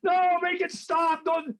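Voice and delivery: high, slow, hammed-up plea to stop; mock pleading. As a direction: ham up the relatives begging him to stop. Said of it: "in-laws begging him to stop".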